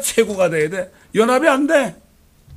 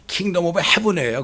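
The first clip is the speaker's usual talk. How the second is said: slow emphasis; much slower than usual. Shown as a demonstration. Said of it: "영어로 직역하면 하늘의 왕국".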